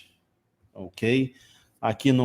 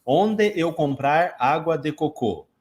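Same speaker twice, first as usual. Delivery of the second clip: foreigner's Portuguese; slower than usual. Retold or imitated. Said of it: "aí ele chega e fala assim".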